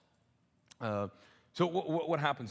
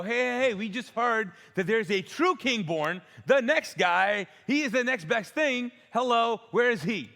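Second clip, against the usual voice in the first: excited Magi; 7 semitones higher, 6 dB louder than usual. Retold or imitated. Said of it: "they go".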